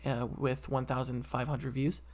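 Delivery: burp slipping into speech. Real, not acted. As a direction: talk around a burp. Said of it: "I'm burping".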